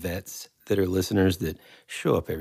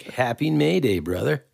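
bright, pitched-up hello with a lift on "May"; upbeat greeting; 5 semitones higher than usual. Shown as a demonstration. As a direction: throw the "Happy May Day, brother" up high like a cheery bro. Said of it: "and then it's just like".

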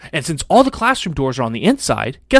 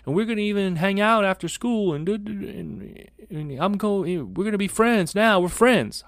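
mock earnest kid, pitched up; eager kid; 6 semitones higher than usual. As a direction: sweet-talk the principal like a scared first grader. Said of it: "the kid, of course, is like".

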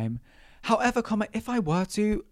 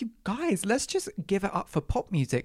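pleading; 4 semitones higher than usual. Retold or imitated. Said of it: "I'm just like".

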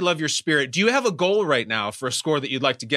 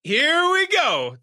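excited; 11 semitones higher, much slower than usual. Real, not acted. Host hyping the contestant.

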